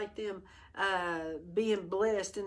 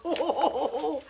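whooping, higher excited voice; fired up; 6 semitones higher, 6 dB louder than usual. Real, not acted. Preacher telling Brian he's getting fired up, whooping. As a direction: let the excitement burst out. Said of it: "I'm getting fired up".

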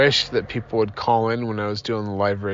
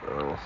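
yawn; 8 semitones lower, 11 dB quieter than usual. Real, not acted. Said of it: "I'm sorry I'm yawning so much today".

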